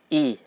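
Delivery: "I" as a clean long i, jaw dropped; over enunciating. Shown as a demonstration. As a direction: give "I" a drawn-out bright i. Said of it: "maka bunyinya menjadi".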